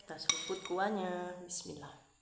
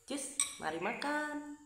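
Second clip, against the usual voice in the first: cheery call; 9 semitones higher, slower than usual. Real, not acted. Cheery call to start eating.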